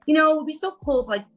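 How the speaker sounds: excitable rushed joking; giddy joking. Retold or imitated. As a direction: rattle it off like a punchline you can't hold in. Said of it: "I was like".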